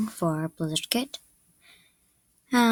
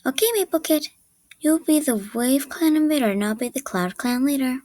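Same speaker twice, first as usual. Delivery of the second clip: higher-pitched neutral character voice; neutral audition read; 3 semitones higher than usual. Acted. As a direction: read the line evenly, pitched up a little.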